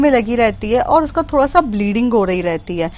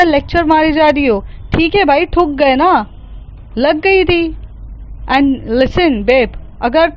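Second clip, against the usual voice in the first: arrogant; 3 semitones higher than usual. Acted. Arrogant rich girl brushes off Mehar.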